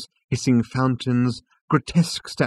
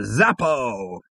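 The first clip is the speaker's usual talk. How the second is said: excited; 2 semitones higher than usual. A narrator's reading. Zaphod exclaims in audiobook.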